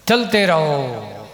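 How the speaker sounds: drawn-out, slow call to keep going; stretched-out marching encouragement; rallying call. Retold or imitated. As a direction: urge walkers on with long, stretched words. Urging pilgrims to keep walking.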